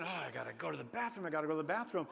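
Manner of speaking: quick, urgent muttering to yourself; mildly frantic. Acted. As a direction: rattle it off like a desperate inner chant. Boy's desperate repeated inner plea.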